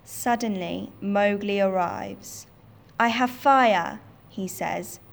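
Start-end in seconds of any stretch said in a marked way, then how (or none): 3.0-4.0 loud, triumphant declaration; bold shout. Acted. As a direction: announce it to scare the tiger. Mowgli threatens wolves with fire.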